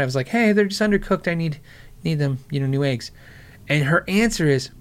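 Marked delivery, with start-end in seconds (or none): 0.3-3.1 nice first, holding back the complaint; passive aggressive. Retold or imitated. Asking the waitress for new eggs, passive aggressive. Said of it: "I was being so passive aggressive about it".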